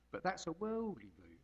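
slight Norfolk lilt slipping in; a touch of Norfolk in the vowels; Norfolk accent. Real, not acted. Preacher briefly slips into his Norfolk accent, a light Norfolk lilt. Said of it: "I sounded Norfolk then".

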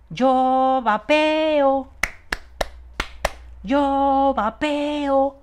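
very slow, loud, high drawn-out yell; mock shout. Imagining a simpler slogan for vapers, very slow loud yell. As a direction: bellow it like a deadpan absurdist comic. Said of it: "No es más fácil gritar algo así".

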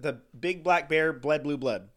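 rattled off quickly; fast tongue twister. Shown as a demonstration. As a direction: race through it fast. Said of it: "I did it way faster than you".

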